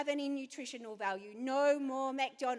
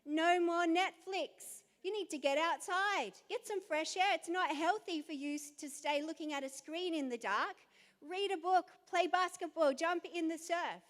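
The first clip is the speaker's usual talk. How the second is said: firm, higher, commanding mum; stern mum orders; 4 semitones higher than usual. Retold or imitated. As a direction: lay down the law to the kids. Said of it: "in that room going".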